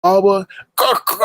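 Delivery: high, sharp dog yaps; mock chihuahua barking. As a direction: yap like a tiny dog. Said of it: "don't she sound like a barking chihuahua?".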